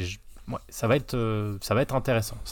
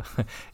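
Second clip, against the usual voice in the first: forced laugh; 8 dB quieter than usual. Real, not acted. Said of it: "je souris un peu rire jaune".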